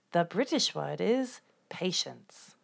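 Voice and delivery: put-on slow British accent whisper. Host whispers the question.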